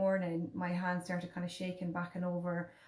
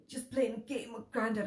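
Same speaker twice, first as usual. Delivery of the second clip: impaired speech; 3 semitones higher than usual. Shown as a demonstration. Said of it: "I was talking exactly like this".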